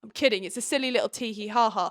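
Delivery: ordinary delivery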